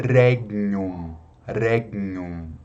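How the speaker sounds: "regnum" as "reg-nyum", G lightly touched; soft G. Shown as a demonstration. Teacher giving another word, "regnum" with soft G. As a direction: say "regnum" with faint G before NH. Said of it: "Eu sempre pronuncio com o G suave".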